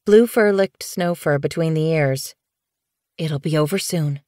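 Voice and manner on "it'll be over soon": soft promise. Acted. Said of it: "she promised".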